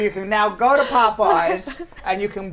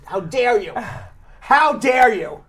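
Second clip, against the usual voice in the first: hammed-up indignant huff; overacted offended protest, slow; mock outrage; 3 semitones higher, 4 dB louder, slower than usual.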